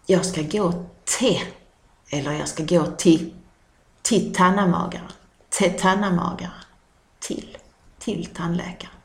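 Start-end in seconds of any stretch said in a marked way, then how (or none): 4.0-6.5 tannamagaren repeated quickly in Scanian; Scanian dialect word. Shown as a demonstration. Dialect teacher repeating tannamagaren for learners. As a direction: rattle off tannamagaren twice.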